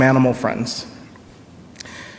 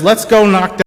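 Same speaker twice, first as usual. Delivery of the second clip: sly snake; 6 semitones higher, 4 dB louder than usual. Acted. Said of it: "the snake comes in and says".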